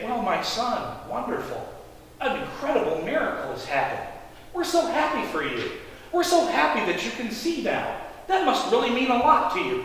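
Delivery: softly spoken, fatherly well-wishing; kindly congratulation. Acted. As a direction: congratulate him gently, like a kindly elder. Imagined kindly reaction of Pharisees.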